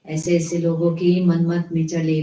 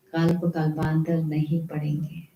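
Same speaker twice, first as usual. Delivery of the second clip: repeated much softer and lower; an echo that dies away after the first warning; 3 semitones lower, 6 dB quieter than usual. Shown as a demonstration. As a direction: let the warning sink in quietly. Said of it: "repeated for emphasis".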